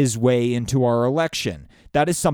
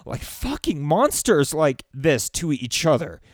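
getting emotional; 3 semitones higher than usual. Real, not acted. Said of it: "I'm starting to get emotional".

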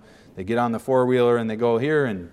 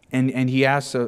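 normal talking voice

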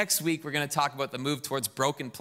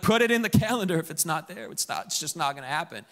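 insistent. Retold or imitated. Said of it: "I'm like".

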